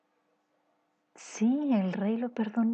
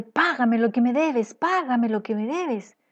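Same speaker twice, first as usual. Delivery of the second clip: louder, a hammed-up angry creditor demanding payment; mock angry demand; 4 dB louder than usual. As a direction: bark it at him like a mock bully grabbing his throat. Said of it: "comenzó a estrangularlo así, diciéndole". (exigencia enojada y algo actuada)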